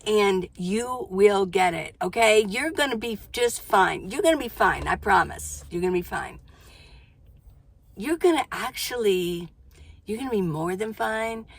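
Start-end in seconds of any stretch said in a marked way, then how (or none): 2.5-6.4 reassuring. Real, not acted. Promising the viewer.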